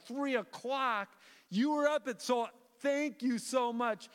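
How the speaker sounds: can't believe how early they got up; surprised. Retold or imitated. Reacting to hotel worker's hours.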